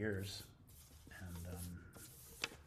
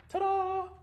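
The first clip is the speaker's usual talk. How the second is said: playful ta-da; 14 dB louder than usual. Real, not acted. Playful reveal after insight.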